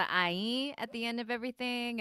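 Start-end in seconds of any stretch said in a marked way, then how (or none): 0.0-0.7 quoting a Busan dialect sentence ending; mom's Busan saturi ending. Retold or imitated. Daughter showing mom's verbal habit, light Busan saturi. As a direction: lightly imitate mom's Busan tag sound. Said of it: "She does the".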